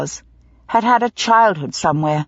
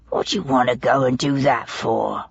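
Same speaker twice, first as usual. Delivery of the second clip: sadly; 7 semitones lower than usual. A narrator's reading. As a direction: mourn her, reproach him gently. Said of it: "he said sadly".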